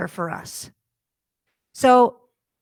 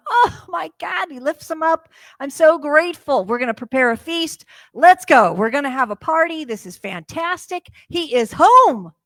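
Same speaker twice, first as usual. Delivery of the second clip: overjoyed father, bursting louder; joyful father; 4 semitones higher, 6 dB louder than usual. Retold or imitated. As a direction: shout the welcome like a thrilled dad. Father welcomes son home.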